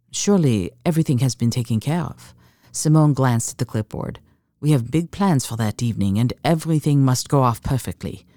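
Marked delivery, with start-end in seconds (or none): 0.1-2.3 poised line with a hint of French; understated French-accented English; subtle French accent. Woman questioning her accountant about the gala bill, subtle French accent. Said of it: "softened by a subtle French accent". 4.6-8.3 put-on lightly French-accented, poised insistence; a hint of French in careful English; subtle French accent. Woman insisting on a perfect gala evening, subtle French accent. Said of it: "softened by a subtle French accent".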